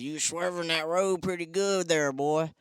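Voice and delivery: lightly voiced small-town cop; imitating the cop.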